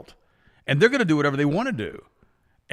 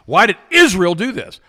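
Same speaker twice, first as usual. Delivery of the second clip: mock puzzled supporter; 7 semitones higher, 10 dB louder than usual. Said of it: "It's like".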